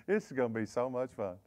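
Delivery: soft, quiet and menacing with delight; gleeful threat. Retold or imitated. Young fighter savours the coming fight, quiet and gleeful. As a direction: murmur it low, enjoying the threat. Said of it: "I'd just be walking at 'em like".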